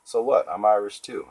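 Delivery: indignant protest. Acted. Willie protests being half Irish.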